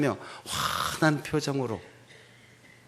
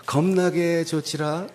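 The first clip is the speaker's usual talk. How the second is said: slow Honam dialect with a laugh; laughing Honam dialect greeting; 6 semitones higher, slower than usual. Shown as a demonstration. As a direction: drawl it playfully in Honam dialect. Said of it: "호남 버전으로도 합시다".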